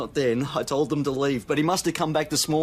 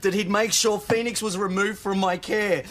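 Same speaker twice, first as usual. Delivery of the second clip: agitated accusation; 6 semitones higher than usual. Acted. Father argues with doubting police.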